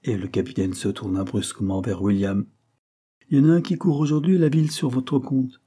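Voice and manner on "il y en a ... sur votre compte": captain. Acted. Captain turns to William.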